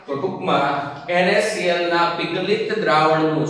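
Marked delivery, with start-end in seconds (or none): 1.1-3.5 પીગલિત દ્રાવણનું said with deliberate emphasis; stress on પીગલિત. Real, not acted. Teacher warning it is પીગલિત, not aqueous, stressed. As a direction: lean on the word પીગલિત. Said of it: "શબ્દ ઉપર ભાર મૂકું છું".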